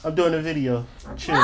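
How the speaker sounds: dropped way down, almost under the breath; hushed aside. Real, not acted. Aside to interrupting kid.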